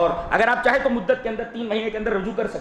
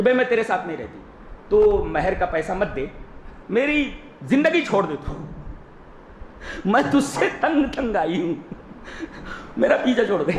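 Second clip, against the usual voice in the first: acted fed-up wife. Wife telling her husband to let her go, mock exasperation. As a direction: act out a wife who has had enough. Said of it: "खुला कराने वाले की कि".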